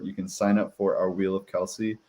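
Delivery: ordinary talk, nothing marked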